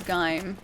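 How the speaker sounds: Gaim as one syllable, rhyming with "time"; quoted pronunciation. Shown as a demonstration. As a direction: say Gaim with an "eye" vowel. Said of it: "would pronounce G I M E as".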